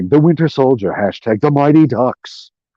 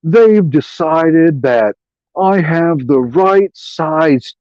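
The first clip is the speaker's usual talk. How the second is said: mocking John Walker; 4 semitones higher, slower than usual. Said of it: "he's like".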